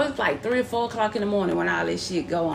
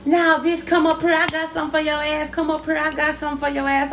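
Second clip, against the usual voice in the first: retold angry shout; 6 semitones higher than usual. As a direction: call them down off the porch. Shouting challenge at women on porch.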